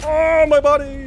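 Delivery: high, loud, drawn-out hammed-up wail; milk the pain for laughs; mock anguish. Real, not acted. Player hamming up his character's hurt, mock wail. In-game damage reaction.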